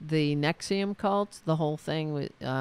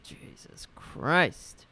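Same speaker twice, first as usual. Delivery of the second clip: exasperated whisper; much slower than usual. Real, not acted. Exasperated aside.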